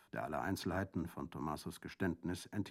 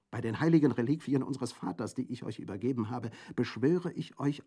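loud, higher, desperate begging; imploring plea; 8 semitones higher, 10 dB louder than usual. A narrator's reading. Colomba begs her brother not to go, imploring. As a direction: beg him with all you have.

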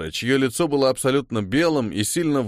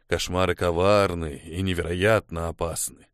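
sad and reluctant; 5 semitones lower than usual. Acted. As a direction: warn her gently but sadly. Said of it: "грустно покачал головой и неохотно сказал". (грустно и неохотно, тихо)

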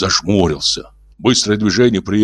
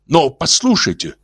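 gentle alien voice; 9 semitones higher than usual. Acted. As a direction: speak like a kindly old alien. Ulin voiced.

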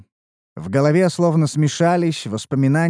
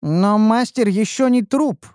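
slow, droning know-it-all; nerd voice; 7 semitones higher than usual. Acted. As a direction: drone it out like a pedant. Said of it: "ответил занудный голос".

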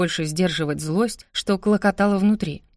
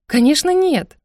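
much higher, louder firm refusal; emphatic no; 10 semitones higher, 6 dB louder than usual. Acted. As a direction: shut the idea down hard. Eva flatly refuses.

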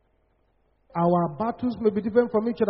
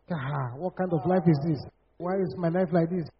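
low, softer acted lament; mock self-pity; 4 semitones lower, 4 dB quieter than usual. Preacher imitating someone at a pity party, mock self-pity. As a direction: mildly voice a self-pitying complainer. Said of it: "We call it a pity party".

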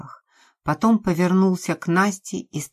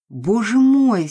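slow, high, loud disgusted cry; 6 semitones higher, 6 dB louder, slower than usual. A narrator's reading. Nastya reacts with disgust to the killers' threat. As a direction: recoil in disgust. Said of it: "с омерзением произнесла Настя".

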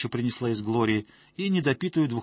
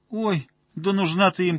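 contemptuous snort; 7 semitones higher, 5 dB louder than usual. A narrator's reading. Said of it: "презрительно фыркнула Ира".

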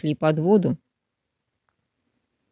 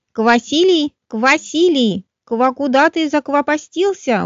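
raised calling voice; 6 semitones higher, slower than usual. A narrator's reading. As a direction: call for the lost froglet. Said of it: "услышали друзья чей-то голос".

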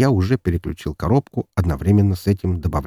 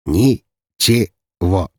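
very slow smirking «Ничего!»; smug reply to his frightened brother; 3 dB louder, much slower than usual. Acted. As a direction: drawl «Ничего!» mockingly. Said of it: "с усмешкой повторил Даниил".

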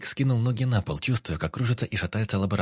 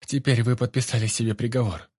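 sullen; 3 semitones higher than usual. A narrator's reading. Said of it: "хмуро бросила Росс".

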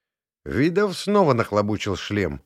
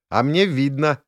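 higher, triumphant; jubilant; 5 semitones higher, 4 dB louder than usual. A narrator's reading. Inna seeing the glow again, jubilant. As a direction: crow it happily. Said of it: "возликовала Инна".

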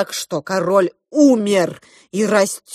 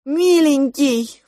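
higher, drawn-out plea; a desperate mother calling the monster dear; pleading mother; 6 semitones higher, slower than usual. A narrator's reading. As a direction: beg him tenderly. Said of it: "заламывая руки".

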